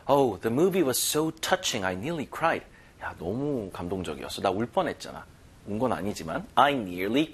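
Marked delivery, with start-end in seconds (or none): 0.1-2.6 slow example reading. Shown as a demonstration. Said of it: "example sentence". 3.0-5.3 acted confidence. Acted example of friend's remark.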